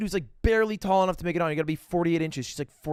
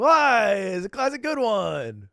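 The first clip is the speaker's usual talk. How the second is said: mock innocent; 6 semitones higher, 6 dB louder, slower than usual. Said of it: "I was like".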